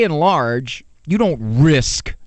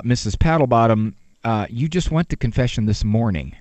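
lower-voiced patient parish priest; a lightly voiced priest, calmly reminding her; 6 semitones lower than usual. Priest answering weary parishioner.

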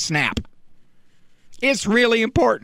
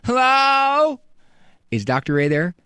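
put-on kid answering the phone; 5 semitones higher than usual. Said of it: "he may say".

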